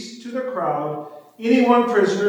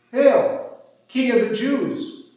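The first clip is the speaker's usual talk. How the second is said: mock homage, pitched up; mocking hail; 5 semitones higher, slower than usual. A narrator's reading. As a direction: hail him in higher-voiced, understated mockery. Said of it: "mocked him, saying".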